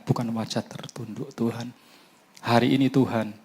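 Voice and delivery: tender, intimate prayer; spoken prayer. Acted. Preacher leads the church in prayer after a breath, tender prayer voice.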